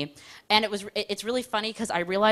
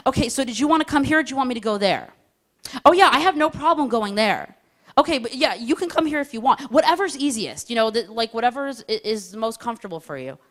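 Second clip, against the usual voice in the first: dithering phone chat; 2 semitones higher than usual. Retold or imitated. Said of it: "it goes like this".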